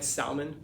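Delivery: SALMON with a sounded L; mispronounced salmon. Shown as a demonstration. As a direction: pronounce the L in SALMON, "sal-mon". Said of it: "It's a mispronunciation".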